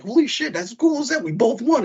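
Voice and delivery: high, hammed-up thrilled cheer; mock excitement. Husband mimicking himself cheering the win, high and hammed-up. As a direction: overplay the joy in a high voice. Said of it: "I was like".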